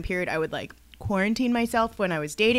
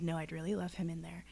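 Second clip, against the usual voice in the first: calm firm reply; 4 semitones lower, 15 dB quieter than usual. Retold or imitated. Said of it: "I took a breath".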